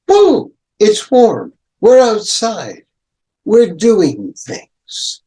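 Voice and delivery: high, loud joyful burst; sudden excitement. Shown as a demonstration. Teacher acting summer's sudden warmth, excited burst. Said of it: "All of a sudden".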